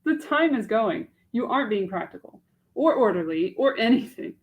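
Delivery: Mache. Acted. Young woman doubting a marriage proposal to herself, in an anguished voice.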